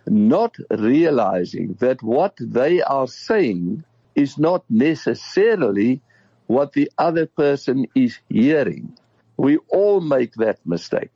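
hoarse, croaky throat; talking through a croaky throat. Real, not acted. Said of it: "you've done amazingly well with your croaky voice".

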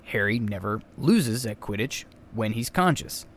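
"Harry never loses" stressed point by point; deliberate emphasis. Real, not acted. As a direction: land firmly on "loses" and "conscious". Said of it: "I'm emphasizing that".

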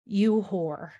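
slow, deliberate outrage, broken by pauses; indignant. Retold or imitated. Viewer scolding Meredith for ringing a bell for Chessie, indignant. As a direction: spell out the affront phrase by phrase. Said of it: "very indignant about that fucking bell".

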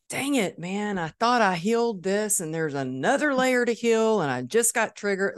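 high, exasperated complaint to yourself; annoyed you're not healed yet; frustrated self-scolding. Retold or imitated. Frustrated at own trigger.

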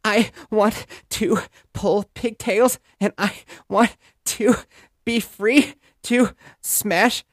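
put-on high, slow whining toddler. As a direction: drag it out like a bratty toddler. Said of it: "She's like".

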